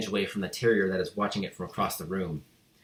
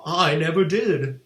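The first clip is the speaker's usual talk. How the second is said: slow, higher, frightened exclamation; exclaimed; 7 semitones higher, 6 dB louder, slower than usual. A narrator's reading. Accused boy denying the theft, shocked exclamation. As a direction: protest in shock. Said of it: "the boy exclaimed".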